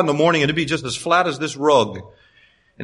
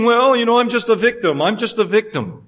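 higher, mock self-pitying whine; mock victim voice; 5 semitones higher than usual. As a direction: lightly mimic someone playing the victim. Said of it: "we can't keep saying".

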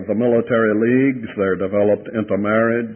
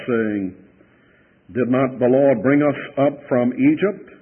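measured, slightly raised reading voice; solemn Bible reading; scripture reading; 2 semitones higher than usual. Acted. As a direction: read the passage to the congregation. Preacher reads scripture aloud.

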